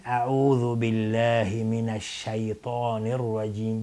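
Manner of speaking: slow «الشیطان» with a clear shay diphthong; correct recitation. Shown as a demonstration. Teacher models the ta'awwudh for students, correctly pronounced. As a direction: give «الشیطان» its open shay, stretched slowly.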